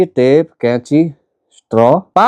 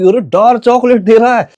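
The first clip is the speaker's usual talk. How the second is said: mock alarm; 7 semitones higher than usual. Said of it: "देख के बोला कि".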